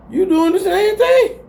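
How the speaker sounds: squeaky slowed call-out; high call-out. Real, not acted. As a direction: call him out, stretched and loud. Calls out the hypocrite.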